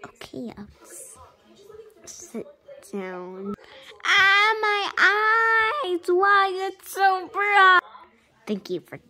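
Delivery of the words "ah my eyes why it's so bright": high, loud startled cry; dazzled cry. Pretend. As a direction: cry out at blinding light. Patient dazzled by light.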